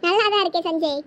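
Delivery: brief chuckle before speaking; coaxed into a light laugh; small laugh. Acted. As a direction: let out a little laugh, then reassure. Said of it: "ஒரு வழியா சிரிச்சிட்டாளா".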